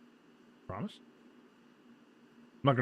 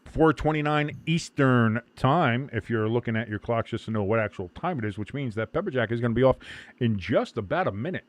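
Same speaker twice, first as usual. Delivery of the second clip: sports broadcaster; 5 dB louder than usual. Real, not acted. Stream host announcing and commentating.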